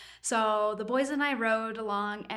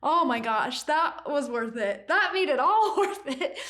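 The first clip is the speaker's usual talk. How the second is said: moved and louder, laughing by the end; real emotional; 4 semitones higher, 5 dB louder than usual. Real, not acted. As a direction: overcome with pride at seeing the dream come true.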